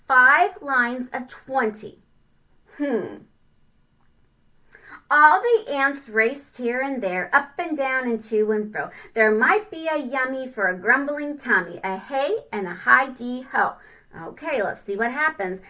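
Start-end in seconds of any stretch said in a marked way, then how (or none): 5.1-13.7 sing-song storybook reading; rhyming read-aloud. A narrator's reading. Parent reading a rhyming picture book to a child, sing-song. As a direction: bounce through the rhyme for kids.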